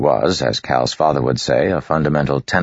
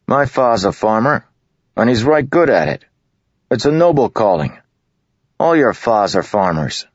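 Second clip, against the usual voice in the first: higher, louder, indignant village lad; offended farm boy; 8 semitones higher, 4 dB louder than usual. A narrator's reading. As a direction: stand up for your father, stung. Tift defends his father.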